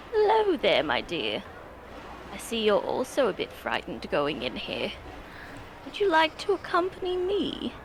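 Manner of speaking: lightly voiced sweet elder, pitch swooping; a hint of a doting grandmother; kindly old character. Old character inviting the frightened goblin, kindly.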